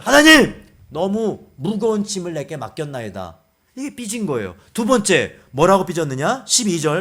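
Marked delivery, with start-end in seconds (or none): 0.0-3.4 loud cry to God, then subsiding; sulky complaint. Acted. Moses sulking before the Lord, sulky complaint. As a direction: act a sulk, starting loud and dropping off. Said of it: "모세가 주님 앞에 삐졌어요".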